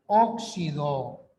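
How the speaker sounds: "óxido" said slowly, each syllable spaced, ó-xi-do; syllabified slowly. Shown as a demonstration. Teacher demonstrating syllable division to class, slow. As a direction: draw the word out to show the split. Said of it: "Por eso".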